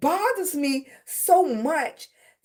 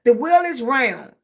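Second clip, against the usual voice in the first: firm, slightly louder statement of fact; imitated insistent teacher; 4 dB louder than usual. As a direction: lay it down like a fed-up teacher. Teachers insisting, in acted quote.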